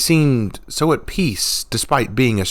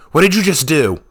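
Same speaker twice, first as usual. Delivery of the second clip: stunned; 8 semitones higher, 5 dB louder than usual. A narrator's reading. Stunned after being thrown.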